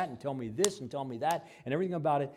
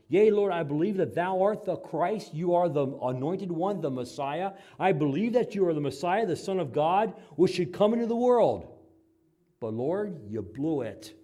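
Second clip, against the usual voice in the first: fervent Martha; 7 semitones higher, 7 dB louder than usual. Acted. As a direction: proclaim it with rising fervor. Martha confessing then rebuking Jesus.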